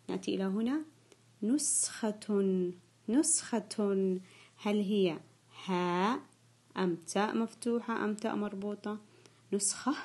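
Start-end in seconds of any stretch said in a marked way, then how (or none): 1.4-4.2 slow dictation. Shown as a demonstration. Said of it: "سوف أنطق الكلمة".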